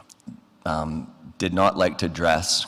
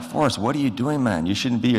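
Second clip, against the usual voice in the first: surprised protest; 6 semitones higher than usual. Retold or imitated. Friend shows up uninvited.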